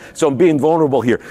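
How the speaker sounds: laughing, quick and sheepish. Real, not acted. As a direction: laugh through it, embarrassed. Laughs at own numb tongue.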